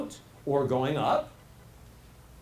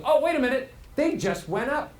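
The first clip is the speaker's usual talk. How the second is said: inner voice; 4 semitones higher than usual. Retold or imitated. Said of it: "Your brain goes".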